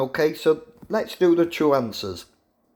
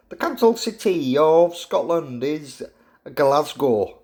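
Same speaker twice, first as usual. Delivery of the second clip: badly faked Scottish accent; a clumsy stab at sounding Scottish; terrible Scottish accent. Shown as a demonstration. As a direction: put on a poor Scottish accent. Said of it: "that's my terrible Scottish accent".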